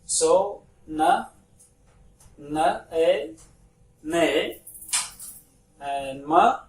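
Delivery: each letter sound said alone and loud. Shown as a demonstration. Teacher sounding out letters to pupils, loud and separate. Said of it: "we pronounce".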